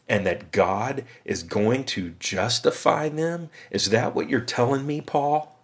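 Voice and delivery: lightly voiced skeptical objector, challenging Paul; a touch of an indignant Jewish believer questioning Paul; incredulous Jewish Christian. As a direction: push back on Paul in disbelief. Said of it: "play the part of the Jewish Christian".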